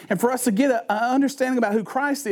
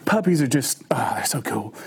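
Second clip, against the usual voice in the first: hushed gush; 7 semitones lower than usual. Real, not acted. Gushing over cute puppies.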